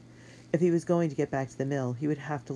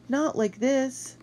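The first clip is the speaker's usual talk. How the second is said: anguished; 12 semitones higher, 3 dB louder, much slower than usual. Acted. Repeated despairing plea.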